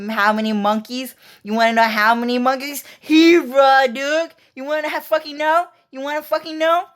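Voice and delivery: high frantic mock yell; excited shouting. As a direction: fire it back, worked up. Alex's retold excited reply.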